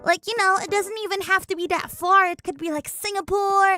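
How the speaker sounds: lightly voiced cheerful friend handing out advice; mock upbeat advice-giver. Imitating online friends giving cheery travel advice. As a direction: play a breezy know-it-all, lightly. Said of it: "my online friends saying".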